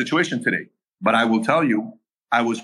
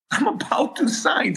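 laughing; 13 semitones higher, slower than usual. Real, not acted. Nervous laugh recalling near signing.

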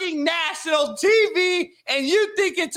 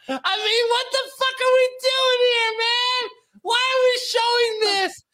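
laughing rant; 9 semitones higher than usual. Real, not acted.

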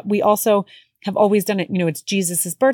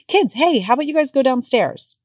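put-on higher, sing-song shooing of the kids; bright deflecting call; 6 semitones higher than usual. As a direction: sweetly hurry the kids out. Mom shooing kids away.

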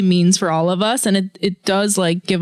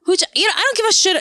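angry; 2 semitones higher than usual. Real, not acted. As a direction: vent your anger to a friend. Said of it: "I'm so angry".

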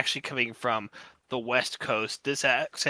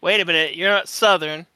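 louder, higher acted realization; pointing out; 6 semitones higher, 7 dB louder than usual. Co-host voices somebody noticing an accent, raised pointing-out tone. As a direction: call it out like someone catching on. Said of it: "somebody can point out and say".

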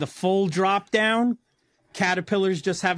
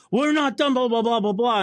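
mocking supervisor; 5 semitones higher than usual. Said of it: "I'm like".

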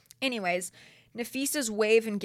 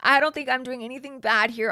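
louder mock-innocent retake; louder sarcastic retelling of his line; mocking quote; 4 semitones higher, 5 dB louder, faster than usual. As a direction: parrot him mockingly, a touch higher. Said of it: "He says".

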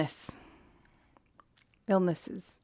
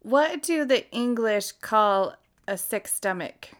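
asking voice assistant; 4 dB quieter, slower than usual. Shown as a demonstration. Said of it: "I'm gonna try that again".

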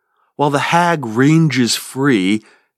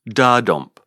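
da-dump with the beat falling on the first da; trochee rhythm. Shown as a demonstration. Teacher demonstrating the falling trochee, stress up front. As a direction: tap out da-dump, strong then weak. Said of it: "they end in a trochee".

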